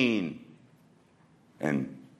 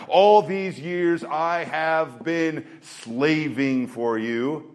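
voicing the older son; 3 semitones higher, slower than usual. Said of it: "that's what he says".

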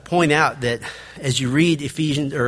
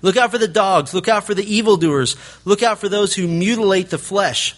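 blazing warning; 5 semitones higher than usual. Retold or imitated. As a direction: fire off the warnings openly, guns blazing. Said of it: "Just say it openly".

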